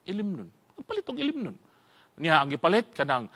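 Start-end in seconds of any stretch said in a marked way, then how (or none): 0.1-1.6 dropped to a soft conspiratorial murmur; hushed secret. Retold or imitated. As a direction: say it softly like a secret. Secret about buying liquor. (hinay nga hunghong)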